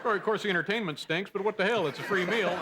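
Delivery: dumb guy voice. Acted. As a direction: play it dim and content. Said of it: "my dumb guy voice".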